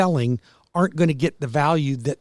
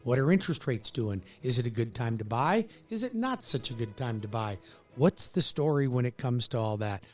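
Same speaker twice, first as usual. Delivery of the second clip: hoarse, losing his voice; 3 semitones lower, 8 dB quieter than usual. Real, not acted. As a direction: push words through a worn-out hoarse voice. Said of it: "I'm losing my voice".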